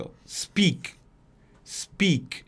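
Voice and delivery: "speak" with the k cut short; "speak" ending sharp, no vowel after the k; clipped final k. Shown as a demonstration. Teacher showing how to say "speak" to students. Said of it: "se fala desse jeito".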